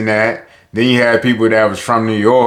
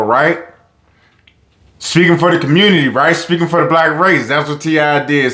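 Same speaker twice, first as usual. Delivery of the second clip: fired-up rant; 5 semitones higher than usual. Real, not acted. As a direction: pitch climbing higher, voice pushing hard as the point builds. Passionate rant about rappers' silence.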